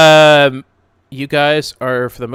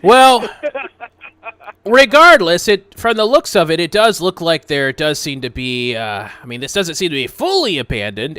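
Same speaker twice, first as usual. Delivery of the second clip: louder, higher know-it-all scholar voice; Alex, pompous know-it-all adventurer; 4 semitones higher, 7 dB louder than usual. Acted. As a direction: play him as a self-important scholar. GM continues as Alex.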